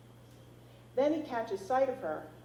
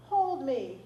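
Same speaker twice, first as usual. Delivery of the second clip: put-on high, louder pleading child; begging toddler; 6 semitones higher, 6 dB louder than usual. A narrator's reading. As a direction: beg to be held like a tired toddler. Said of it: "he begs".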